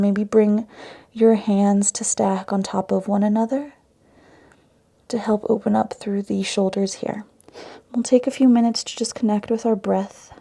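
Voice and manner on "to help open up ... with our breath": calm yoga meditation with long pauses; guided meditation. Acted. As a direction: guide them into the breath, leaving space between phrases. Guides breath and intention setting.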